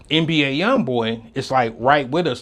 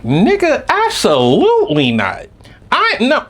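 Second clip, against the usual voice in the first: high, loud flat-out no; loud refusal; 10 semitones higher, 5 dB louder than usual. Retold or imitated. Refusing girlfriend's request, loud high no. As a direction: shut her down hard and loud.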